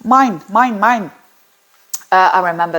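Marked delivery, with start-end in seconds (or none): 0.1-1.1 lightly imitated greedy seagulls from Nemo, close to her own voice; a hint of the squawking Nemo seagulls, mine over and over. Quoting the Nemo seagulls to show possessiveness, a mild greedy chant. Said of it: "like in Nemo".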